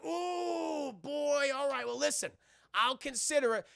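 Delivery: high, loud mock reluctance; a cartoonish, stalling tough guy; hammed-up hesitant Rock. Rock reacting to the mission.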